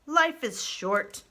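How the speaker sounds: put-on slow, weary old creature; old groundhog grumbling. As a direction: lean into the age. Dig Down character voice.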